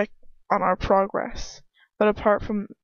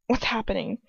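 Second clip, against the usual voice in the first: lightly voiced English-accented character; put-on English accent; Ron, English accent. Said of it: "it has to have the English accent".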